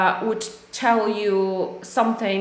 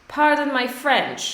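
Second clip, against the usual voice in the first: model phrase said higher; 4 semitones higher than usual. Shown as a demonstration.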